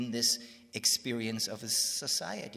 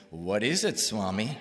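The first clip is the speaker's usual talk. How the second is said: retold louder, pressing question; insistent question; 8 dB louder than usual. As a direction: press for an answer, raising your voice. Asks again, more insistently.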